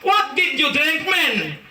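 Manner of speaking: high put-on American question; mock American asking. American man asking what he ate, high put-on accent. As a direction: quiz him casually, American style.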